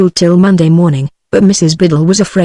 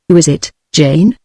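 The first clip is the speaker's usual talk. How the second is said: sour. Acted. Mrs Biddle sourly asking who has come in, mildly sour. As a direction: ask it sourly, a little put out. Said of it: "she asked in a sour voice".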